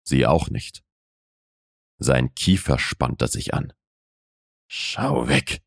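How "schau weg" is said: low, hushed male inner voice; inner self-command. A narrator's reading. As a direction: whisper it to yourself as the man. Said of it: "sagte er sich". (leise geflüsterte innere Männerstimme)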